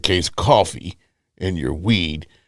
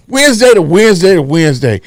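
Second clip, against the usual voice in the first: hyped catchphrase; 7 semitones higher, 5 dB louder than usual. Acted.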